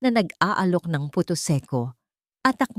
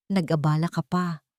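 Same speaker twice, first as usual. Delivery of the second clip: listless. Acted. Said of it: "walang ganang sabi ni Puri".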